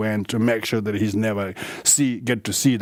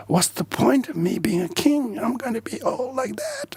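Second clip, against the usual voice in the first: mock despairing prince. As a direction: whine it like a gloomy young prince. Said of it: "because he was really depressed".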